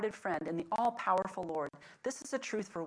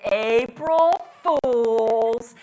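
very loud, very slow, drawn-out call; mom calling April Fools; 3 semitones higher, 13 dB louder, much slower than usual. Retold or imitated. Mom calls up to her sons from the stairs, long loud sing-song. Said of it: "And then she said".

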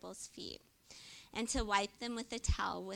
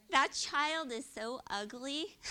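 slow, sugary put-down; sweet mean remark; 4 semitones higher, 6 dB louder, slower than usual. Retold or imitated. Southern woman insulting a child, slow and sugary. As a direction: say something mean as if it were kind. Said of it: "saying mean things in a sweet voice".

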